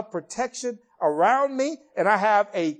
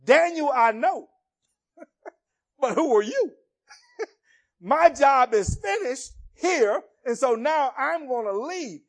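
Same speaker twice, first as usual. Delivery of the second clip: laughing angel; 6 semitones higher than usual. Acted. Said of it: "the angel says".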